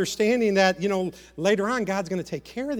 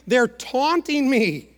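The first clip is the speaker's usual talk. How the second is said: raised, slow, emphatic cry; acted indignant protest; emphatic complaint; 4 semitones higher, 5 dB louder, slower than usual. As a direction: punch it out louder, drawn out. Preacher acts out David's complaint.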